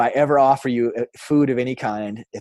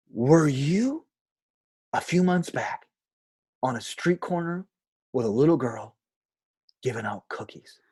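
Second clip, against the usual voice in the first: unhappy man; 4 semitones higher than usual. Retold or imitated. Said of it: "he didn't seem happy about it".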